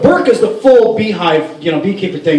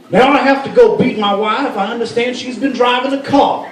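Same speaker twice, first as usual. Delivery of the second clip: higher-pitched speech-closer in a put-on Arabic accent; mock Arabic accent; 5 semitones higher than usual. Lawmaker closing his speech in debate, mock Arabic accent. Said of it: "That's my Arabic accent".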